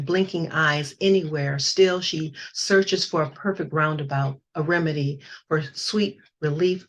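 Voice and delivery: measured poetry recital; poem reading. Acted. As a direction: read each image with care. Reads her poem aloud.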